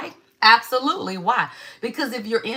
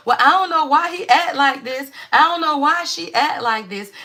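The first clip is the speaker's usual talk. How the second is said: clueless parent complaining; 5 semitones higher than usual. Retold or imitated. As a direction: play the parent who won't admit it. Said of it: "you over here talking about".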